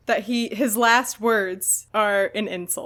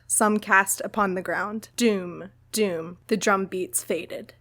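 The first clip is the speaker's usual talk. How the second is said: solemn book reading; 2 semitones lower than usual. Acted. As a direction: read it like a mournful ending, letting each doom sink. Reads the chapter ending aloud.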